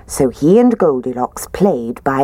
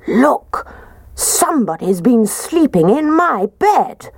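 raised Daddy Bear voice; 8 semitones higher than usual. Acted.

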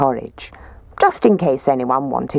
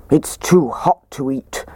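gruff Daddy Bear. A narrator's reading. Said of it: "said Daddy Bear in his gruff voice".

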